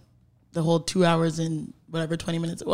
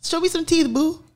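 high and slow, teasing; 8 semitones higher, slower than usual. Acted. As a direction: coax a smile, playfully high. Teasing cohost to smile.

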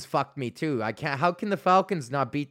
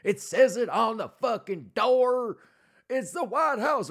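slow, higher, dopey redneck voice, mocking; 7 semitones higher, slower than usual. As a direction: play a dimwitted redneck stating the obvious. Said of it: "be like".

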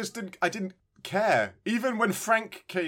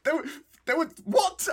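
incredulous; 11 semitones higher than usual. Real, not acted.

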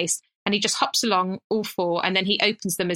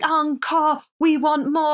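high, raised cries of an adoring audience; mock crowd shouting; 7 semitones higher, 3 dB louder, slower than usual. Comic imitating her partner's adoring crowd, mock shouting. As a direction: call out like fans demanding an encore. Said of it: "they're shouting".

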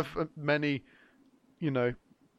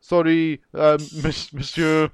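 halting mock French accent; 4 dB louder than usual. Thief handing a phone back to its owner, mock French accent. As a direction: fumble for words in a put-on French accent. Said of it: "That's my French accent".

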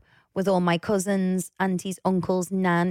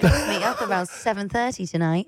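lightly put-on posh English voice; mock posh accent. Partner mocks husband's way of saying dad, mild posh voice. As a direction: say it like a proper southern family. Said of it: "Why do you have to do that accent".

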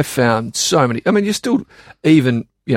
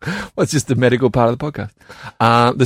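air hostess voice. Acted. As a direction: keep up the flight attendant manner. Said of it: "What are you doing the air hostess voice for?".

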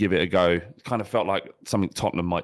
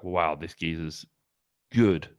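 awed; 5 semitones lower, 3 dB quieter, slower than usual. Retold or imitated. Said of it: "you're like".

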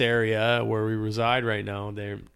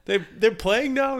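high, eager passerby question; curious stranger voice; 9 semitones higher than usual. Retold or imitated. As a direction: voice an excited fan asking. Stranger voice continued.

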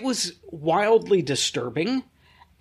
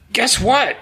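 imitating excited kid; 7 semitones higher, 4 dB louder than usual. Imitates son with news for dad.

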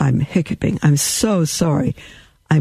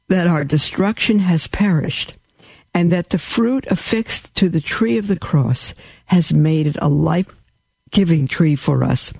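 devotional reading. Acted. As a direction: read it like a prayer of praise. Reads papal bull aloud.

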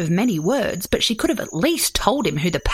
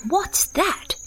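groggy, higher-pitched koala question; sleepy groan; 10 semitones higher than usual. A narrator's reading. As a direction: groan it as if just woken. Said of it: "he groaned, opening one eye sleepily".

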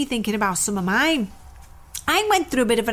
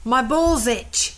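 slowly drawn-out reading of My balls itch; much slower than usual. Pretend. Host reads a T-shirt slogan slowly. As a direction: spell out each word slowly.

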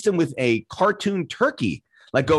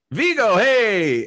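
high, drawn-out greeting; hailing someone; 6 semitones higher, much slower than usual. Retold or imitated. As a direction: call out to him with stretched vowels, re-enacted. Re-enacts hailing a celebrity.

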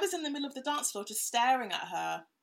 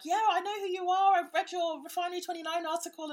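a singer's voice; 10 semitones higher, 4 dB louder, faster than usual. Retold or imitated. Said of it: "then she's like"

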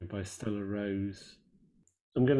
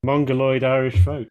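quoting a singer; 3 semitones higher, 8 dB louder than usual. Retold or imitated. Host quoting a singer on the band, loud mock sneer. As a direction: bark out the quote like a sneering punk. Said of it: "that's actually Marky Smith quote".

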